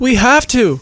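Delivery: high, insistent cry; yelled insistence. A narrator's reading. Courtney argues for calling the police, yelled. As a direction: push it up high to overrule them. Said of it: "Courtney yelled".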